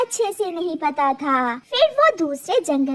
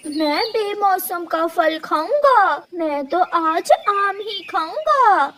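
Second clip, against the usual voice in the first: put-on slow, whiny demanding child voice, a bit higher; stubborn spoiled child; 4 semitones higher than usual. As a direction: drag it out like a spoiled little boy. Spoiled crow son demands mangoes.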